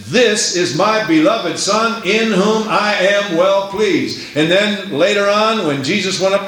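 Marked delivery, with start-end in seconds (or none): 0.1-4.2 voice from heaven. Retold or imitated. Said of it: "the voice from heaven said".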